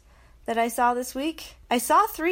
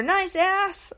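high mock catcall; catcaller call; 9 semitones higher than usual. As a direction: toss it out like a street heckler. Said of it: "someone yells at me".

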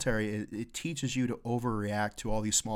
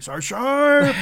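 much higher and louder mock shout; calling out a name; 15 dB louder, much slower than usual. Lieutenant calling for Sergeant Sharp, loud shout. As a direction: yell his name across the room. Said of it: "And be like".

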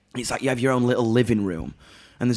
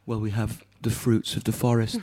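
lightly voiced waitress; 3 semitones lower than usual. Quoting waitress offering drink.

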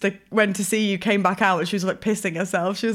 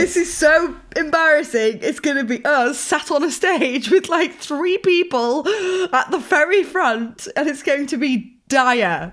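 mock panic; 6 semitones higher than usual. Retold panic over empty venue.

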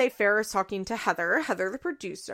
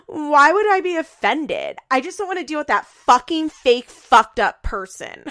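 mock outraged denial, high and loud; Farrah; 6 semitones higher, 10 dB louder than usual. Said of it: "doing, like, exact opposites".

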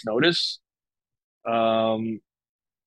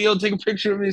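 high, eager request; a starstruck teen begging for a photo; excited kid; 7 semitones higher, faster than usual. Retold or imitated. A kid in the van begs for a photo, excited and high. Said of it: "like, going crazy in the van".

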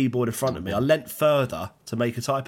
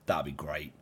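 mock gleeful; 7 semitones lower, 5 dB quieter than usual. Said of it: "your entire face go".

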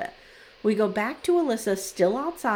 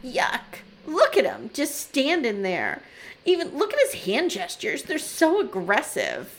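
sulky disgust; 2 semitones higher than usual. Retold or imitated. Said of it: "channeling my fifteen-year-old daughters here".

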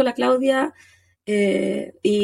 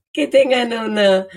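laughing through pain. Real, not acted. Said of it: "me da mucha tos reírme".

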